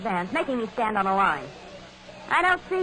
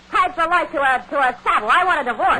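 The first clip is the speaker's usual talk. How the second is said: rising anger, louder toward the end; angry demand; 4 semitones higher, 5 dB louder than usual. Acted. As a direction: hurl it at him, fed up and loud. Wife demanding divorce from husband.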